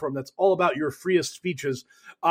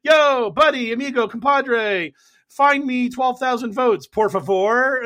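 higher, louder buddy-buddy ask; mock Trump; 6 semitones higher, 4 dB louder than usual. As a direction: sweet-talk a pal into a favour. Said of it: "where he's like".

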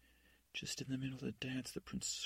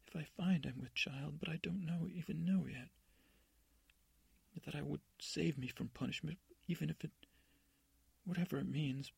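pleading; 5 semitones higher than usual. Acted. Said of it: "She starts crying again".

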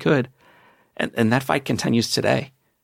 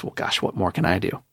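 helpless victim. Retold or imitated. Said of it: "the final question is".

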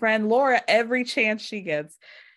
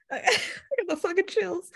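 higher, slow, laughing through the words; slow giggling mock gush; laughing mimicry; 8 semitones higher than usual. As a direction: crack up while mimicking the gushing.

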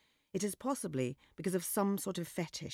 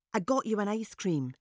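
loud voice for show; 5 semitones higher, 3 dB louder than usual. A narrator's reading. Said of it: "she says in the loud voice".

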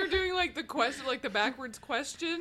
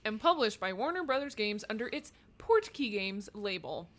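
reading aloud. Acted. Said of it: "That was read from Wikipedia".

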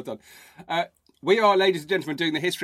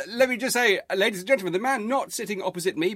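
raised, ringmaster-like introduction; higher-pitched, announcer-style build-up; show introduction; 7 semitones higher, faster than usual. Acted. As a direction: introduce your co-host to the audience with a flourish. Mock-formal introduction of co-host.

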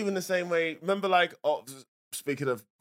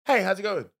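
dialled-down greeting; 3 semitones higher than usual. Pretend. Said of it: "let me dial it down".

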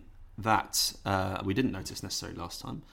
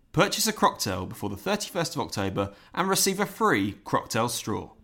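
put-on booming old-timey advert voice; old radio announcer; 4 dB louder than usual. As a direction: sell it like a vintage radio ad. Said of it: "new club".

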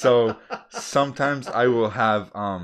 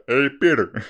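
loud, high cartoon-character greeting; put-on punchy voice; Joe Swan; 5 semitones higher, 8 dB louder than usual. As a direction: greet someone in an impression. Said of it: "I like to do my, uh, Joe Swan".

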